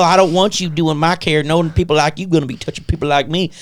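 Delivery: hammed-up drawling redneck voice; mock redneck dude. Patient parodying what the nurse assumed he was, redneck caricature. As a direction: imitate a bigoted bearded dude refusing care. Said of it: "some white dude with a beard and tattoos".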